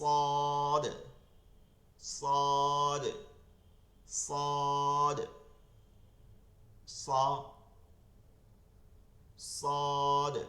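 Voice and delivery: সদ said loudly with a thick, heavy স; Arabic letter demo. Shown as a demonstration. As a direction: drill সদ with a full, emphatic স. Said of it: "স মোটা হবে". (মোটা স দিয়ে জোরে সদ)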